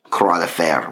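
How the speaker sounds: Croix de Fer said the French way, kroah duh fair; French name. Real, not acted. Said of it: "the Iron Cross".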